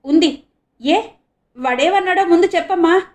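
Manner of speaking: high, loud, urgent pleading; flustered. A narrator's reading. Father urges the girl to tell him, flustered. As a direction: rush her to tell him. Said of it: "గాభరాగా అన్నాడు".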